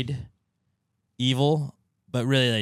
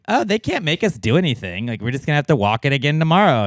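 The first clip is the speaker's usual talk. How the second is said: whiny slacker voice; 6 semitones higher, 5 dB louder than usual. Retold or imitated. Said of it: "were like".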